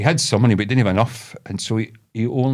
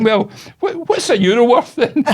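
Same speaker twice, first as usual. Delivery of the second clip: high old-lady impression; lightly imitated puzzled old woman, pitched up; mock old lady, louder on the question; wee old woman; 13 semitones higher, 5 dB louder than usual. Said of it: "this wee old woman".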